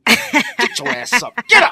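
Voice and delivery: high, slow, hammed-up get up; mock high wake-up yell. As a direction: drag the words out, shrill and mocking.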